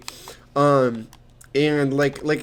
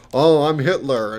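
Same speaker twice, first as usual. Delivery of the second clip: put-on German accent, Hitler impersonation; 5 dB louder than usual. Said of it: "he starts doing a German accent".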